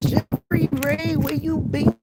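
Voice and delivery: high, slow playful call to a viewer; drawn-out call. Pretend. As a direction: stretch the name out like calling across the room. Calling out to a viewer.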